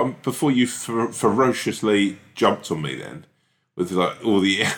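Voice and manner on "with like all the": starting to laugh. Real, not acted. Cracking up at co-host.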